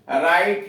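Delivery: राइट said as rait, no w sound; silent w demo. Shown as a demonstration. Teacher to class, saying राइट with w silent. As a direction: drop the w, just rait. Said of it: "डब्ल्यू silent है".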